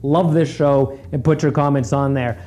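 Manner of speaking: loud, slow promo voice; ad read. Acted. Host reads a podcast promo to listeners, loud and slow. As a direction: sell the show like a cheesy host.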